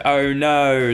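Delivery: Australian vowels on a drawn "Oh no"; broad Aussie accent demo. Shown as a demonstration. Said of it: "pick up on the Australian accent".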